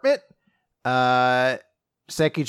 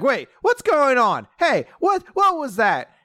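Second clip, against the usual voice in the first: higher, alarmed questions tumbling out; jolted awake and confused, asking what happened; startled alarm; 11 semitones higher than usual. Retold or imitated. Ogata wakes in the scuffle, startled and alarmed. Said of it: "So Ogata's like".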